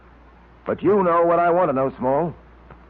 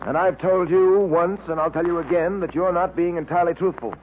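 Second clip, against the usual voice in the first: stern accusation; 3 semitones higher than usual. Acted. Detective pressing a suspect who hides the truth, stern and insistent. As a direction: lean on him like an interrogator who's out of patience.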